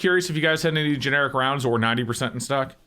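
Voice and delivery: disguised voice through a voice changer; masked caller voice. Real, not acted. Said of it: "I am using a voice changer".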